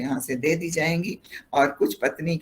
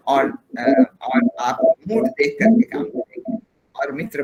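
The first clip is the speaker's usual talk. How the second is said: heavy echo, voice not clear; 9 semitones higher, 6 dB louder than usual. Real, not acted. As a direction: sound echoing like a hall. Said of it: "आ, इको आ रहा है". (इको वाली गूंजती आवाज़)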